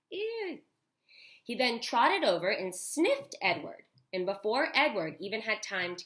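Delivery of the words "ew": high squeal of disgust; a quick grossed-out ew. Real, not acted. Reading to kids, reacting to the dog peeing: disgusted ew.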